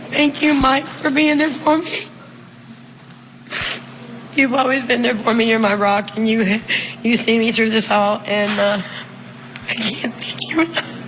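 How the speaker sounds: tearful, catching breath midword; fighting back tears as she speaks; crying. Real, not acted. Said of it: "I'm crying".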